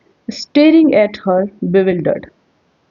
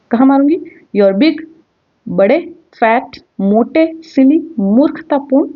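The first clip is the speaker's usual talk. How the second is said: threatening; 6 semitones higher, slower than usual. Acted. Wife threatening slap.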